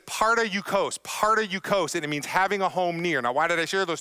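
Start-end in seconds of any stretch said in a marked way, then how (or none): 0.1-2.0 "parta yukos" sounded out with stress on "parta"; Greek word demo. Shown as a demonstration. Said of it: "you say it like this".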